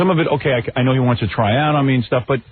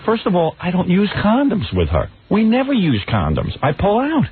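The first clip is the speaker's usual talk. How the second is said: higher, rising panicked denial; panicked husband defending himself, much higher; retold frantic protest; 8 semitones higher than usual. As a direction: plead your case in a rush of alarm. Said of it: "I said".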